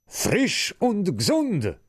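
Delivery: put-on high, slow, chanted children's shout; shouted greeting. Children bursting into the room, chanting high and slow. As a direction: burst in crying out the Easter greeting.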